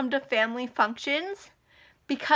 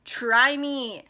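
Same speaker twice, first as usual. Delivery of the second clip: big boss defiance. Acted. Imagined confrontation with her abuser, big boss threat. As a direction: square up like the boss, drawing out the threat. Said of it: "I was gonna be like".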